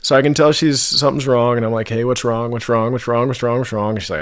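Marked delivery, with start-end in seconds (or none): 1.9-3.9 louder, rapid-fire repeated questioning; imitated anxious badgering; insistent pestering. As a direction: pester them, retelling your own nagging. Retells pestering his upset partner.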